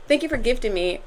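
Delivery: lilting attempt at an Irish accent. Shown as a demonstration. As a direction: put on an amateur Irish accent. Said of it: "I kept saying it in an Irish accent".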